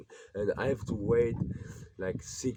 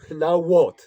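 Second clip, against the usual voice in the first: loud, higher, despairing yell; desperate shout; 9 semitones higher, 15 dB louder than usual. Real, not acted. Young man venting his despair, shouting loudly. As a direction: shout the question at nobody. Climax of rant after laugh.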